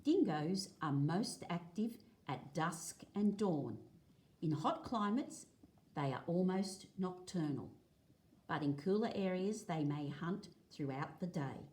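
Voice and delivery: clear, lively read-aloud for a class; reading to children. Acted. Teacher reading a dingo book to the class, lively read-aloud. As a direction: read the page out to the kids, a touch brighter.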